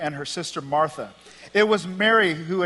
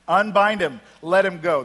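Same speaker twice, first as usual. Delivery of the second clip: raised, louder order in two short bursts; firm command; 2 semitones higher, 6 dB louder than usual. Acted. Jesus ordering the people round Lazarus, firm command. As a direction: order it firmly, voice lifted.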